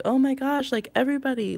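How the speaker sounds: high, loud overwhelmed outburst, hammed up; mock scream. Overwhelmed animal screaming at the whole household, mock scream. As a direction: imitate a frazzled pet yelling. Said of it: "what they're screaming is like".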